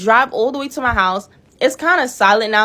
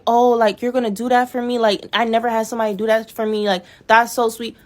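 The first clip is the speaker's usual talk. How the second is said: mock gushing date; 2 semitones higher than usual. Her date thanking her for paying, gushing. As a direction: play him gushing and clueless.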